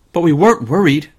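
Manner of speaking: put-on high child's voice, lightly called; a girl calling down, a bit brave. Jane calling to her parents from the hayloft, high light call. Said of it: "called Jane".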